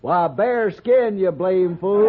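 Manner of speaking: mocking jeer. Cowhand mocking the English dude.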